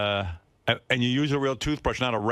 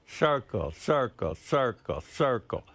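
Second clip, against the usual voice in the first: gentle demo; 2 semitones higher, slower than usual. Shown as a demonstration. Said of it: "gently right where the teeth".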